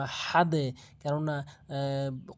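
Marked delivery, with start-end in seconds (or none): 0.0-0.7 আহাদে with a bounced echoing final d; correct pronunciation. Shown as a demonstration. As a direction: let the d of আহাদে rebound. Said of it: "কলকলার একটা পরিচয় রয়েছে".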